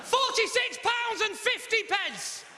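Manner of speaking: high, slow, stunned outcry; outraged shock. Acted. Comedian reliving his shock at the phone bill. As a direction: blurt out the bill in disbelief.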